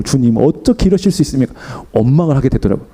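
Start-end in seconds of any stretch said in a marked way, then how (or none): 0.0-1.5 muttered complaint. Retold or imitated. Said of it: "혼자서 막 중얼중얼".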